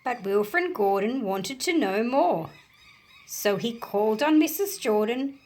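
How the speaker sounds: story narration. A narrator's reading. Teacher reading a picture book to children, animated storytelling. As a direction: bring the picture book alive for kids.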